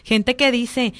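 emphatic. Real, not acted. Exclaiming about excuses.

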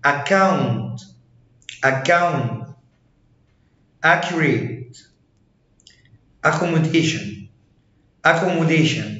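"account", "accurate", "accommodation" with cc as one k; hard k. Shown as a demonstration. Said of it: "هيتنطق كي".

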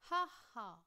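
loud hammed-up ha ha; read-out laugh. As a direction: laugh it out as the friends share a joke. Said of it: "Both laugh".

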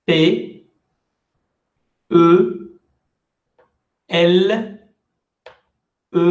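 each letter said once, clearly, with pauses; spelled letter by letter. Shown as a demonstration. Teacher repeating the spelling to students, letter by letter. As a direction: spell it out for the class. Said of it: "Je répète une fois chaque lettre".

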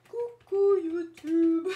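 high, loud, slow laughing coucou; laughing shout to YouTube. Pretend. Youtuber shouting hello to YouTube while laughing. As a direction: yell the hello through a laugh.

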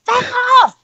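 high, loud "Feck off!" at an ex; fed-up brush-off. Retold or imitated. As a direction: tell a clingy ex to leave, sharply. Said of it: "you're like".

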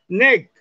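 NECK with a hard k-like ending; strong final G. Shown as a demonstration. Teacher showing G placed last sounds strong, hard-ended "neck". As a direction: end neck on a strong stop. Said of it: "suena fuerte".

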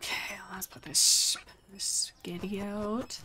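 breathy whispered aside; hushed whisper while shelving. Real, not acted. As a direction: murmur it to yourself in a whisper. Whispering to herself while stocking.

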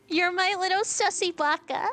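put-on cutesy high anime girl voice; squeaky anime girl teasing. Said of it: "You have, like, the voice for it".

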